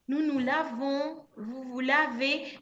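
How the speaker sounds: "lavons" ends in a nasal vowel between O and N. Shown as a demonstration. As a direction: let "lavons" end nasal, not on an N. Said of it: "un sonido nasal entre O e N". ("lavons" con vocal nasal final)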